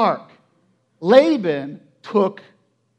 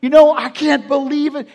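acted panic, louder and higher; panicked; 4 semitones higher, 6 dB louder than usual. Jacob wonders what happened last night, mock panic. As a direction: reel in raised-voice disbelief. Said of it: "He is panicked".

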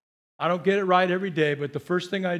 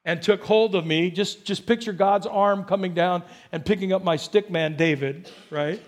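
psalm reading; 2 semitones higher than usual. Acted. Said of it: "in verse sixteen".

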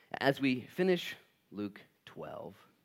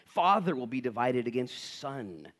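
slow, weighty reading; slow scripture reading; 3 dB louder, slower than usual. Acted. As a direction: measure out each pairing.

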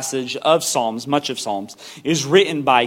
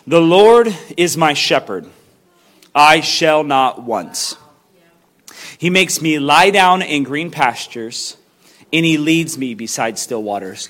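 scripture reading. Acted. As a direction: read it like holy text, unhurried. Reads Psalm 23 aloud.

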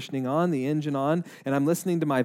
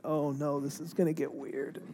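nervous laughing aside; 10 dB quieter than usual. Retold or imitated. Retold inner worry, laughing.

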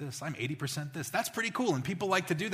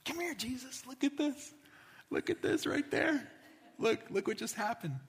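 excited proud dad; 7 semitones higher, 4 dB quieter than usual. Pretend. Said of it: "and he's like".

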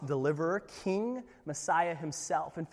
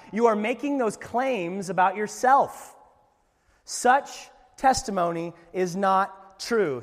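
mock Pharisee accusation; 2 semitones higher, 5 dB louder, slower than usual. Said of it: "They replied".

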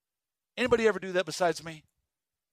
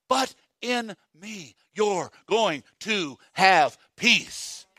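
a hint of tender promise; much slower than usual. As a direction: hand it over gently, very slowly. Voicing God's promise slowly.

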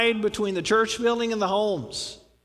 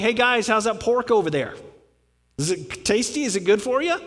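mock-friendly needling questions; teasing taunt; 3 semitones higher than usual. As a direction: poke at them with fake concern. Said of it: "Kind of poking them".

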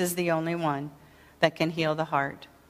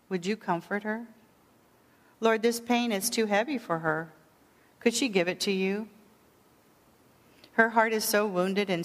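gentle intercessory prayer. Shown as a demonstration. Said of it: "it could sound something like this".

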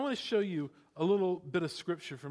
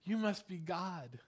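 adoring dog. Retold or imitated. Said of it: "A dog says to you".

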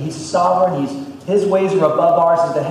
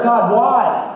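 high, loud anguished cry of why; yelling at God; 8 semitones higher, 5 dB louder than usual. Acted. Elders wailing to God on their faces, high and loud. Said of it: "they're yelling out to God".

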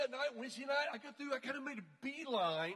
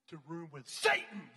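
louder, laughing through the words; laughing through punchline; 5 semitones lower, 6 dB louder than usual. Real, not acted. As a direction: laugh as the joke lands.

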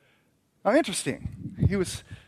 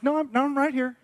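God reassuring; 10 semitones higher, 4 dB louder than usual. Retold or imitated. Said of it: "He's like".

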